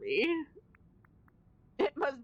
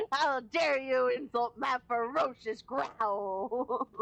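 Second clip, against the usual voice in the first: mock fierce wolf; slower than usual. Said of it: "talking like this".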